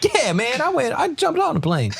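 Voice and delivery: high, excited black American accent impression; Chris Tucker black accent. Retelling the Instagram interview to friends, high black accent impression. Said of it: "So why would you do black accent".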